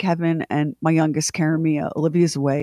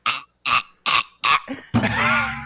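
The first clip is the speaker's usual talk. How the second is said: choking gasps; 6 semitones lower than usual. Retold or imitated. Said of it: "And I'm like".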